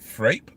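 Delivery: "frappe" as frape, rhyming with grape; "frappe" with long ay and silent e; long-A pronunciation. Shown as a demonstration. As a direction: say "frappe" as one questioning syllable, frape. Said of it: "no idea how that's pronounced".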